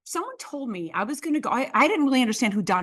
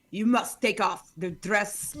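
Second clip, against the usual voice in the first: Italian police; slower than usual. Retold or imitated. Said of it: "and they say".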